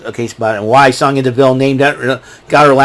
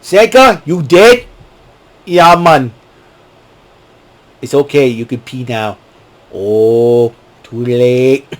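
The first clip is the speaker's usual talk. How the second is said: Cool Runnings quote; slower than usual. Retold or imitated. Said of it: "we would quote the movie".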